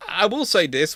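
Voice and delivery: ordinary talk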